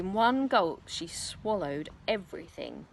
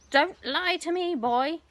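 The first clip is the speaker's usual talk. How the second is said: put-on loud, higher angry old hag; shouting hag; 9 semitones higher, 6 dB louder, slower than usual. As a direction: snap it at the boy. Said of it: "the enormous old hag shouted".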